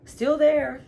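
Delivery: high, loud burst of disbelief; shocked disbelief. Real, not acted. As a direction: blurt it out stunned that he's still there. Shocked Kwame hasn't left.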